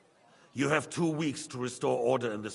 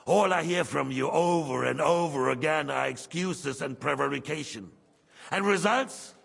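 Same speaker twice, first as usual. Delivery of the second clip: angry; 3 semitones higher, 6 dB louder than usual. Acted. King berates the council.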